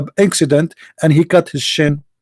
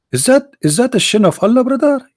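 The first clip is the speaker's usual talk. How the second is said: mock awe; 8 semitones higher than usual. Skit, awed question.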